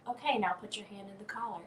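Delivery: soft mock coaching murmur; calm, deliberate voice. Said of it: "in a very calm and deliberate voice".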